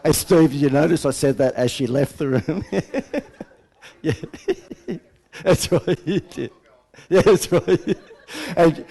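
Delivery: loud, high, cracking up; real laughing. Real, not acted. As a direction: talk through helpless laughter. Cracks up at his own joke.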